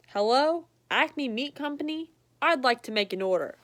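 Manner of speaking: lightly voiced dog caller; phone order voice.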